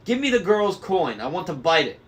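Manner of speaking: high, loud demanding crone; greedy old hag. A narrator's reading. Third lady demanding the coin from the driver. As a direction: whine for the coin like a greedy witch. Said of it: "the third lady said to the driver".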